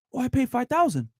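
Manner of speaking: lightly imitating a friend showing off the same bag; gushing friend. Friend voiced in bag story.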